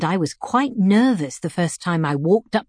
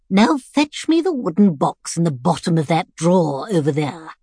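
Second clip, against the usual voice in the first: lightly voiced commanding old woman; bossy old lady. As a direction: order the carer about, half playful. Missus B giving orders.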